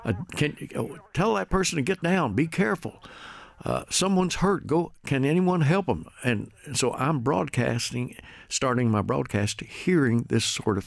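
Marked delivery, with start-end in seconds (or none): 0.0-6.1 higher-pitched imitation of panicked bystanders' warnings; retold urgent shouting. Broadcaster recalling people shouting as somebody's shooting, imitated urgent cries. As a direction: call out warnings, urgent but not truly shouting. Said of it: "People were screaming and shouting".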